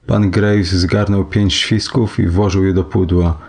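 ordinary delivery

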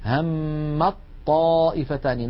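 الطائفتان with ت merged into a doubled ط; very slow recitation demo; drawn-out demo, no ت at all; merged reading. Shown as a demonstration. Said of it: "ننطق طاء مشددة".

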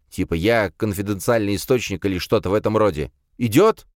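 urgent. Acted. Paul demands protection urgently.

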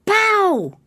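a desperate stage prompt. Acted. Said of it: "came the disembodied voice from the wings".

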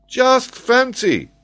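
very high, loud, drawn-out scoff; haughty, stretched-out exclamation; proud retort. A narrator's reading. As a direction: scoff with wounded pride. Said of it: "throwing back his head proudly".

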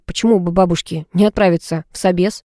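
ordinary delivery, nothing marked

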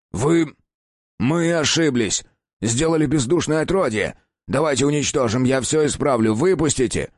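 high, desperate cries; panicked pleading. Acted. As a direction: plead to be let go. Captive begs in panic.

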